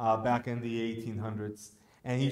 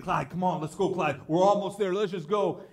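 lightly voiced pleading old man; a hint of begging the donkey; mild pleading; 7 semitones higher, 5 dB louder than usual. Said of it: "he's begging him, pleading".

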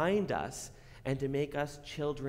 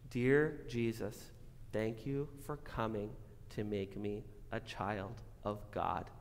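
prayer. Acted. Leads a prayer.

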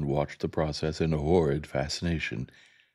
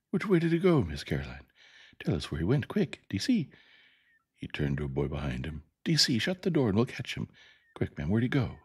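urgent schoolboy; 4 semitones higher than usual. Acted. Boy urgently hunting the creature.

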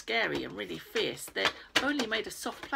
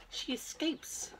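slow secretive whisper; 4 semitones higher, 5 dB quieter, much slower than usual. Real, not acted. Whispering the secret of Grandma's escape. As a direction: breathe the secret out slowly.

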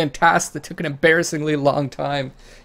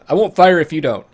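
loud, raised call across a distance; calling back; 5 semitones higher, 9 dB louder than usual. Acted. Traveler to a hidden gunman, calling out loud and higher. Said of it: "I called back".

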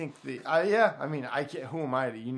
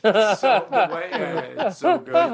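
laughing; 6 semitones higher, 11 dB louder, slower than usual. Real, not acted. Laughing at impression.

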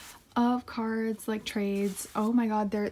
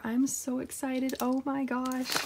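giddy anticipation, lifting as it goes; real excitement, drawn out on the repeat; excited; 3 semitones higher, slower than usual. Real, not acted. Collector eager for the album on the bottom, excited.

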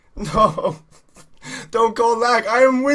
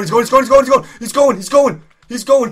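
excited shouting; 4 semitones higher, 7 dB louder than usual. Real, not acted. Tense race, urgent commentary.

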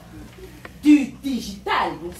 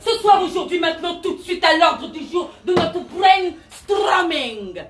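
rousing shout; 5 semitones higher than usual. Acted. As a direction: whip the audience up. Guru shouting agenda.

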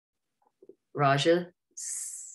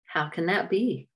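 incredulous; 3 semitones higher than usual. Acted. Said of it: "Raja was incredulous".

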